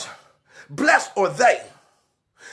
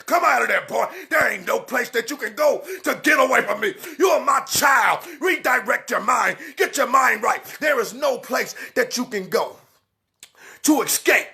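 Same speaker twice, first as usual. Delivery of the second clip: preaching. Acted. Preacher calling sinners out of hiding. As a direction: preach it hard to the congregation.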